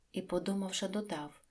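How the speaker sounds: ordinary delivery, nothing marked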